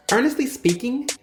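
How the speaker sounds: measured, scripted announcer read; podcast outro read. Real, not acted. Host telling listeners where to find the show, outro read. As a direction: read the show credits over music. Reads the show's outro over music.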